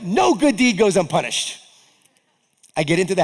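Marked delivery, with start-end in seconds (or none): 0.0-1.6 raised, louder exasperated yell; yelling it out in frustration at the ticket; retold yell. Driver yelling to himself after the ticket, exasperated shout. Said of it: "I yelled".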